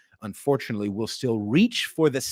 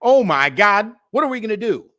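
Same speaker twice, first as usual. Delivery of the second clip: mock panic; 4 semitones higher, 4 dB louder than usual. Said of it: "We had a lot of motherfuckers".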